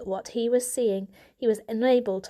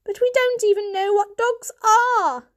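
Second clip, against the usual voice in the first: louder, higher; heated protest; 13 semitones higher, 7 dB louder than usual. A narrator's reading. Elder Poor argues with Mother, heated and loud. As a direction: argue back hard.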